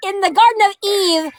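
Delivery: laughing. Real, not acted. Joking while laughing.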